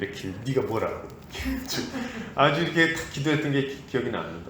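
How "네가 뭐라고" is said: low, haughty, arrogant sneering scoff. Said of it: "아주 거만하게".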